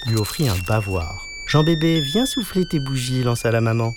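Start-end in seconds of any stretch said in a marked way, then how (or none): 1.5-3.2 calling out. A narrator's reading. Mother calling her son to his birthday candles, calling out. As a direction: call the child over in a high singsong.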